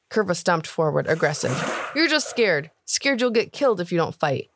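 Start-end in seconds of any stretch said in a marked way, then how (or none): 1.9-4.5 put-on higher, jeering young voice; boy mocking the cook as a coward, jeering; taunting orc boy. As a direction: sneer at the grown-up.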